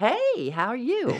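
friendly, high, bright Southern voice.

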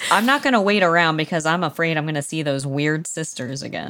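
usual speaking voice

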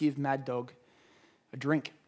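small, quiet, soft, hushed voice. Retelling a quiet inner voice telling him to share: quiet half-whispering voice. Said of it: "quiet voice of the Spirit whispers".

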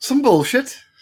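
English accent, pitched very high. Repeating the words after another player asks about the accent: british accent. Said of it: "does it actually say "some bullshit" in a British accent?".

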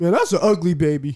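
blunt, plain-spoken delivery. Speaker recalls a voice that pops into their head, imitating Mike's voice. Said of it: "his voice pops in my head".

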